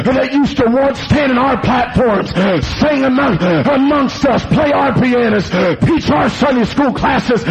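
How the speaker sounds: urgent sermon rhythm, gasping between phrases; full-force preaching. Acted. Warning that the devil came in our churches, full-force preaching. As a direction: drive each phrase at the congregation.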